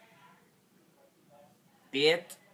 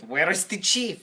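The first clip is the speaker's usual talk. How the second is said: raised, higher questioning voice; mildly urgent demand for an answer; 5 semitones higher, 4 dB louder than usual. Acted. Climber asks the village children during the fire, raised urgent voice.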